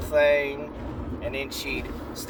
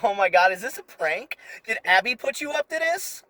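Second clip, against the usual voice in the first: mock girly barista; 6 semitones higher than usual. Barista giggling.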